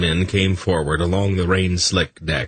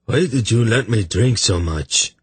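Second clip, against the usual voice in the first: mild wail of complaint, higher pitched; reproachful; 5 semitones higher than usual. Acted. Hungover man blaming his companions, mildly wailing reproach.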